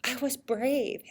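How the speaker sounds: put-on a kid proudly realizing she was brave; lit-up realization. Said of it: "her little face just lit up".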